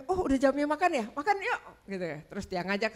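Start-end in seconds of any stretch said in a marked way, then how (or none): 0.0-1.6 higher, cheerful call to dinner; husband calling. Retold or imitated. Husband cheerfully calls family to eat, higher pitch. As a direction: lightly voice the husband inviting everyone.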